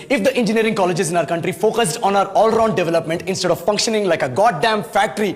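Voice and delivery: slow, emphatic English tirade; showy English speech. Acted. Candidate telling off HR interviewer, slow emphatic English speech. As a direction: spell out the grievance deliberately, word by word. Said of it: "बोल दिया मैंने चार और line अंग्रेजी में".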